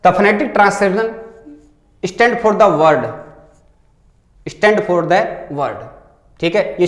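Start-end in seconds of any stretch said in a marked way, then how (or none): 0.0-1.1 each word drawn out slowly; slow reading aloud. Shown as a demonstration. Teacher reading the exam question to students, slow and clear. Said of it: "अगला है". 2.0-3.0 words stretched out very slowly; very slow reading. Shown as a demonstration. Teacher reading the question aloud to students, very slowly. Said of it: "अगला है". 4.5-5.8 very slow repeat. Shown as a demonstration. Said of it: "अगला है".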